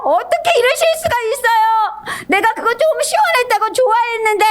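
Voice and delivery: high, wailing protest; acted-out outraged grievance; angry Jonah. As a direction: complain bitterly with the pitch way up. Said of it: "막 화를 내요".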